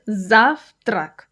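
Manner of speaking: ЗАВ-трак, split in two, stress first; two separated syllables. Shown as a demonstration. Teacher showing a two-syllable word, завтрак split with first syllable stressed. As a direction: break завтрак into two clean syllables, first one stronger. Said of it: "This is a two-syllable word".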